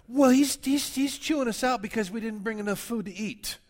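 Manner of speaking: high, loud whiny complaint; grumbling disciple. Retold or imitated. Preacher voicing disciples grumbling about bread. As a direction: play the disciples griping.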